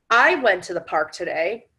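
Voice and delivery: I went to the park today with "I" punched; stress on I. Shown as a demonstration. Demonstrating emphasis to listeners, stress on "I". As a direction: lean hard on the word "I" only. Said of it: "depending on what you emphasize".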